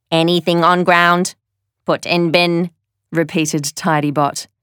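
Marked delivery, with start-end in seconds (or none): 0.1-2.7 robot voice. Acted. Tidybot the robot repeats.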